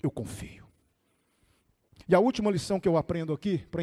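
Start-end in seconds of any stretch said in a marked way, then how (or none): 0.0-0.7 very soft, low avowal; hushed, fragile profession of trust; trust by a thread. Retold or imitated. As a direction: murmur faith while barely hanging on. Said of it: "num fio de esperança, mas ele disse".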